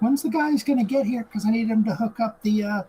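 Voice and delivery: high, loud mock-demanding quote; impatient demand. Woman demanding help with the kegs, impatient imitation. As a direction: pitch it up, pushy and put-on.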